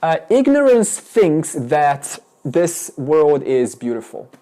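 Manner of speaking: loud, slow, drawn-out declaration; spelling it out loudly, word by word; demonstrative example sentence. Shown as a demonstration. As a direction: proclaim it slowly as a model sentence. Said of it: "why don't you speak like this".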